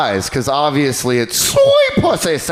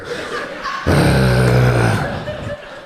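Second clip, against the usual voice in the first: A rapper's heavy breathing; 13 semitones lower than usual. Retold or imitated. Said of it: "that's how he breathes".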